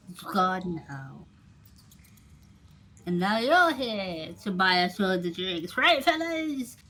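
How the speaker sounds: a hint of a rambling drinker, rousing at the end; lightly voiced bar regular. Plays bar regular telling of fight.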